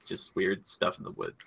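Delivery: hushed, slow mysterious whisper; spooky whisper. Acted. Describing the weird Merlin movie in a spooky whisper. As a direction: whisper it like a campfire tale.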